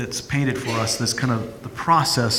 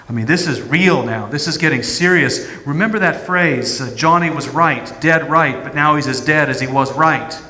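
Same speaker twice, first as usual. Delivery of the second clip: louder, hard-nosed reality check; blunt pragmatist; 3 dB louder than usual. Acted. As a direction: talk sense into him, bluntly. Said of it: "I can hear the pragmatist saying".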